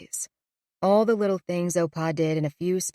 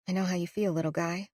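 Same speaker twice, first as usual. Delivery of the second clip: soft aside to a plant; 6 dB quieter, faster than usual. Acted. Narrator speaks softly to a leaf.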